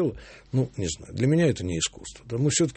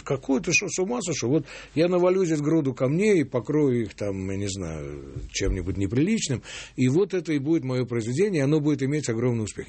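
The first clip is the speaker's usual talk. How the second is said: higher-pitched, dismissive imitation of a self-assured artist; mock incredulous retort; 4 semitones higher than usual. Composer mimics artists who no longer paint, mock incredulous. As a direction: act out someone brushing off the very question.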